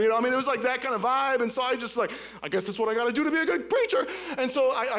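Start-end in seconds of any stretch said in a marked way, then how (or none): 2.4-4.1 mock Southern preacher, lively and quick; imitated Southern preacher voice; Southern preacher accent. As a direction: put on a Southern pulpit accent, laughing. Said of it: "I started to preach like that".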